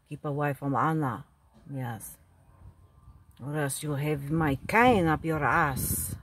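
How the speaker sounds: gruff grandpa warning off a rival; threatening. Acted. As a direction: growl a threat with a cane.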